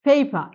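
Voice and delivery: "ফেইফা" ending in an open a, no R; silent final R. Shown as a demonstration. Teacher showing the P sound to the class, silent final R. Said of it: "আরটাকে উচ্চারণ করছি না".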